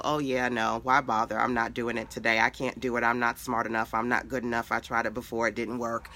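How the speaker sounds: low, deflated run of excuses; mock defeat. Teacher voicing a follower talking herself out of it, mildly defeated. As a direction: drop the pitch and imitate giving up.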